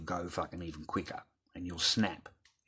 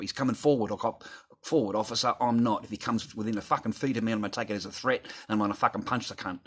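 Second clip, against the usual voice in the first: raised, insistent mock threat; retold heated warning; 3 semitones higher, 5 dB louder than usual. Retelling his warning to a cop about a threat, heated. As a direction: warn the officer, getting worked up.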